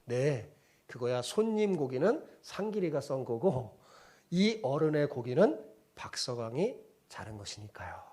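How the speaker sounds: calm reply. Retold or imitated. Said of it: "침착하게 이렇게 대답했대요".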